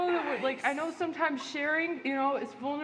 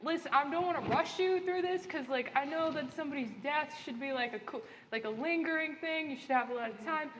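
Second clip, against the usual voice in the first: lightly voiced ghost Terry. Terry explains the hour.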